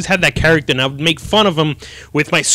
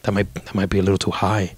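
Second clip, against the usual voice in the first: timid worry; 6 semitones lower, 5 dB quieter than usual. Retold or imitated. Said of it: "I'm like".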